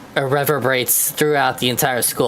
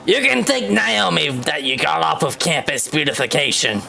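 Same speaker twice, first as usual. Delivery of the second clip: Senator Armstrong voice. Acted. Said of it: "Senator Armstrong impression, voice for Spears".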